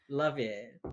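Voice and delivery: dry mock approval; sarcastic. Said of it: "That's sarcasm".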